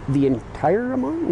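slow, disbelieving question rising high; surprised. Retold or imitated. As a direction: ask it in shock, drawn out. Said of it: "I'm like".

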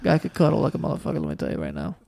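lightly voiced old Italian man; old Italian man accent. Old guy praising his pal to friends, old Italian accent. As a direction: vouch for him like an old Italian buddy. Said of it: "like an old Italian man accent".

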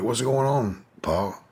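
imitating himself. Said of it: "I'm like".

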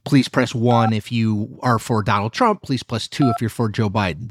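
lightly imitated automated phone poll voice; a hint of a recorded robocall; robot voice. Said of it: "an automated voice calls and says".

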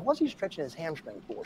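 quiet puzzled mutter; muttered under breath. Retold or imitated. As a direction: mutter it to yourself. Muttered thought in story.

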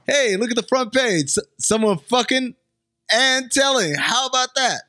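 high, mock amazed reader; hammed-up gawking reader; newspaper reader voice. Shown as a demonstration. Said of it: "let me try it again".

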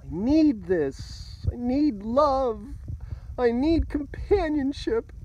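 high, loud, drawn-out mock desperation; slow, whiny-high pretend panic, building; mock panicky neediness. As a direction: plead in a hammed-up panic, pitch climbing with each need. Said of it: "could be kinda panicky feeling".

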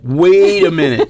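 acted outburst of disbelief; astonished interruption. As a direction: call a loud halt, half laughing. Acts out stopping the man excitedly.

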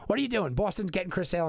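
lightly voiced pal, pitched high; imitated Boston pal. Boston pal phoning to argue for the team, lightly imitated. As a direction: plead the case high, mildly mocking a pal. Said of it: "my pals from Boston, they're gonna call me up".

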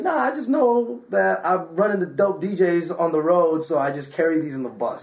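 a hint of a celebrity impression; Dave Chappelle. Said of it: "You can do the Chappelle voice".

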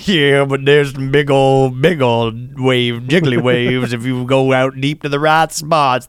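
slow, lazy Southern surfer voice; southern drawl. Pretend. Defending his surfer audition in a slow mild Southern drawl. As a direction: drag the words out like an Oklahoma surfer. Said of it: "southern accent".

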